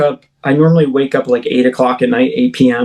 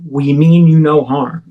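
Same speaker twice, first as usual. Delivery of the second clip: warmly reassuring. Retold or imitated. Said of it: "very, almost warmly said".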